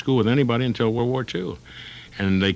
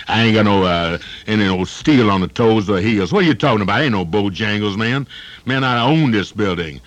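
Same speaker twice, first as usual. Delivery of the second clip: tough guy; 5 dB louder than usual. Acted. Tough building owner reply.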